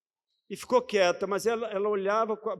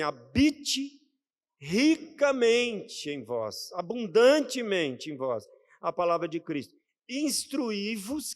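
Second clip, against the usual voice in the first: solemn scripture reading; 3 semitones higher, slower than usual. Acted. Preacher reading the verse to the church, slow and solemn. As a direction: read the verse slowly and with weight.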